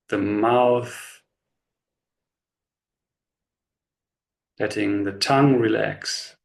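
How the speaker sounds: slow, unhurried body-scan guidance with long pauses; measured meditation voice, leaving space after each instruction; guided meditation. Real, not acted. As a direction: guide them gently into relaxation, phrase by phrase.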